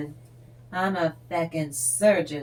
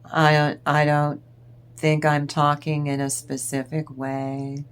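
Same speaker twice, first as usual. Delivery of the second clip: gray rock monotone; 2 semitones lower, 4 dB louder than usual. Retold or imitated. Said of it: "just as boring as can be".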